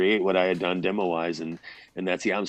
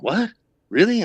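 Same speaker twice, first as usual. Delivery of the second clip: surprised; 13 semitones higher, 6 dB louder than usual. Retold or imitated. Stunned by the publicist's praise.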